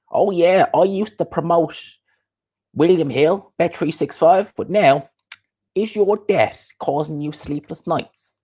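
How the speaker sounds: high-pitched mock promoter; Coogan. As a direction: put on an ad pitch, slowing for the question. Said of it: "Coogan with".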